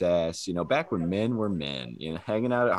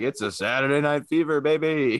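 disco pickup line; 7 semitones higher than usual. Retold or imitated. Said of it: "I'm like".

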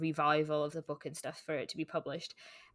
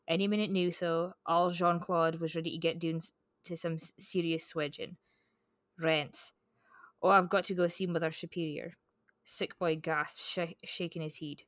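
reading in thick Scots dialect; broad Scots, read like the novel's narrator; broad Scottish accent. Acted. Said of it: "I love hearing your accent".

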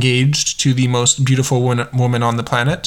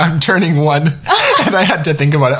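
laughing; 4 semitones higher than usual. Real, not acted.

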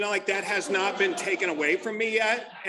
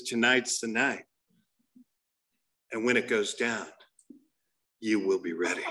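commercial voice-over; 10 semitones lower than usual. Retold or imitated. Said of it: "then this voice comes on".

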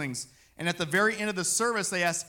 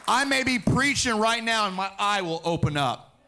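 raised, louder declaration of faith; loud excited preaching; 4 semitones higher, 6 dB louder than usual. Real, not acted. Preacher to congregation, claiming his healing, louder fervent proclaim. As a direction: proclaim it with rising fervour.

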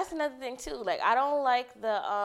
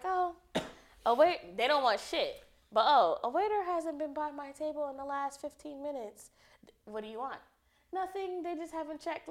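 entitled customer voice; 4 semitones higher than usual. Retold or imitated. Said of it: "then you got corporate Sally".

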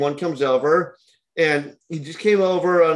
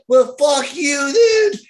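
high, loud, slow snap; angry retort; 11 semitones higher, 5 dB louder, much slower than usual. Retold or imitated. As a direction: spit it out at him and leave. Girlfriend storms out angrily.

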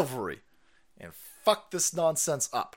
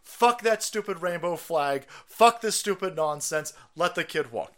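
defiant parents; 2 semitones higher than usual. Retold or imitated. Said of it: "to the school and said".

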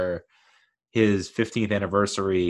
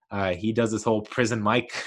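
laughing. Real, not acted.

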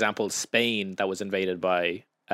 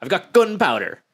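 mock bravado; 5 semitones higher, 3 dB louder than usual. Acting out the plotters' bravado.

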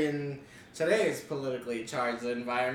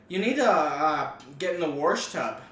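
put-on North Dakota accent. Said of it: "My grandma has it so bad".

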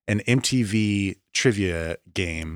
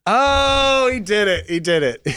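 high delighted cheer; excited; 13 semitones higher, 5 dB louder, slower than usual. Real, not acted. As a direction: celebrate the correct guess. Delighted at correct guess.

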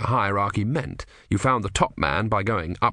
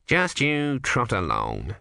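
slow, lightly soothing elder; patronising; much slower than usual. Acted. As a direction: pat him on the head with words. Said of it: "he said".

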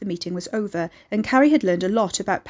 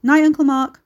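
raised, higher-pitched farewell; cheery goodnight; 6 semitones higher, 8 dB louder than usual. Acted. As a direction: call goodnight across the room. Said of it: "who cheerily waved back".

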